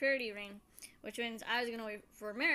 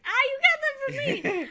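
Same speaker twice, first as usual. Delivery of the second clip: much higher, loud triumphant cry; excited exclamation; 14 dB louder than usual. Retold or imitated. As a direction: shout it out, caught you. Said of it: "he's like".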